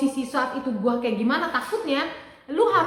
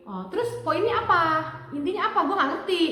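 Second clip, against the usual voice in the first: mock impatience; 3 semitones higher than usual. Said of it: "Gue balikin lagi".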